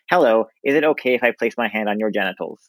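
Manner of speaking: lightly voiced awkward nerd; stiff, prim nerdy asking. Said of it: "ask in, like, a really nerdy voice".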